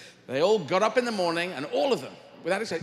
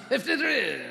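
laughing; 8 semitones higher than usual. Acted. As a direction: crack up on the number. Raptor repeats, laughing.

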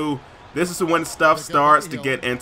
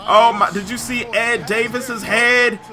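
high, loud astonished outcry; stunned gamer exclaiming; shocked shout; 6 semitones higher, 5 dB louder than usual. Real, not acted. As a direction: yell in disbelief at the replay. Shocked at on-screen collision.

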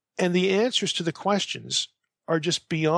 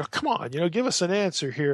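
lightly imitated exasperation, starting higher; mildly frustrated; 3 semitones higher, faster than usual. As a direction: plead with a touch of mock impatience. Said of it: "Saul's getting a little frustrated".

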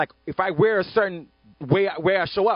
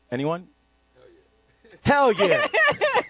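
ratchet friend; 8 semitones higher than usual. Shown as a demonstration. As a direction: hype it up like your loudest friend. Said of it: "Your ratchet friend says".

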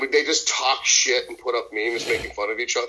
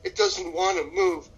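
higher, drawn-out mock wail; mock crying; 4 semitones higher, slower than usual. Dieter stuck in the car starts crying, mock weepy. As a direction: lightly imitate a weepy complaint. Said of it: "then you start crying and you say".

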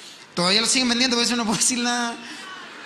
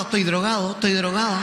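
mock stoned teen. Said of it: "yo me hacía el drogado".

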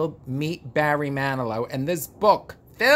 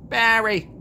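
excited call; 7 semitones higher, 6 dB louder than usual. Real, not acted. Calling Barry's name variously.

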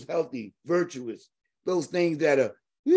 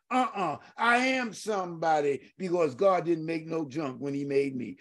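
tearful testimony; 4 dB quieter than usual. Real, not acted. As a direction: voice catching with tears. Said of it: "those words mean a lot to me".

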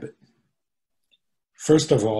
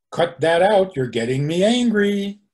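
higher, raised-voice mock threat; acted angry warning; 6 semitones higher, 4 dB louder than usual. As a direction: warn them off, playing at rising temper.

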